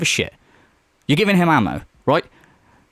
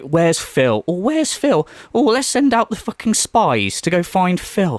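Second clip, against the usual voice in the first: higher, slow, whiny mimicry of a fussy fan; mock his panic in a drawn-out whine; 4 semitones higher, slower than usual. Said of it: "He's like".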